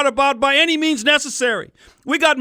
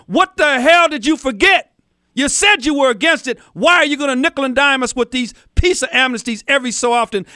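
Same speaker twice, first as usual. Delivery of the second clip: indignant confrontation. Pretend. Radio host challenging his congresswoman over amnesty, indignant. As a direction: confront her as if face to face.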